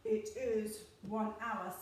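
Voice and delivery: slow, lightly voiced monster; Gruffalo voice. Shown as a demonstration. Teacher answering which is longest, slow Gruffalo voice. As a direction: draw it out like a storybook beast. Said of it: "Okay, in your Gruffalo voice".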